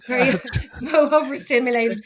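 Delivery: real laughing apology, overcome; flustered laughter while apologising; on verge of tears. Real, not acted. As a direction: laugh through welling emotion, voice lifted. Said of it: "I'm gonna cry now".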